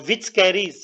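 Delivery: slow dictation. Real, not acted. Teacher dictating the statement to students, slow dictation. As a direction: draw the words out firmly for note-takers.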